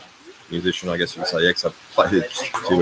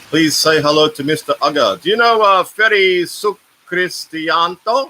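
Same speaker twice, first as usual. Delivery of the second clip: loud, higher call across the room; 10 semitones higher, 5 dB louder, slower than usual. Real, not acted. Asking Mister Aga to greet viewers, calling loudly. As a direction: call out loudly to someone away from the mic.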